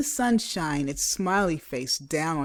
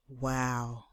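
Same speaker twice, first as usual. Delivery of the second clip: awed hush; 4 semitones lower, 8 dB quieter than usual. Acted. Class speechless.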